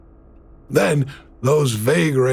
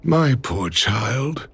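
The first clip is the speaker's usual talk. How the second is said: tender; much slower than usual. Acted. Father comforts his daughter.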